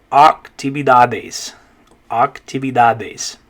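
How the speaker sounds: actividades slowly with open ah; slow Spanish model word. Shown as a demonstration. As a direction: stretch actividades for learners. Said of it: "in Spanish it's an A sound".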